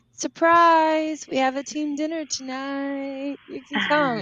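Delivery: mock cheerful surprise. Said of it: "we were like".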